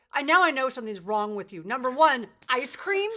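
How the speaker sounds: teasing impression of a stunned daughter; incredulous daughter. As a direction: act out her flabbergasted kid. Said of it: "you looked at me, you go".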